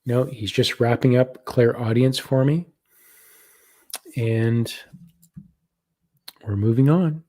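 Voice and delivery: whisper. Real, not acted. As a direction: breathe it out, passing on a message. Relaying the spirit guide's message.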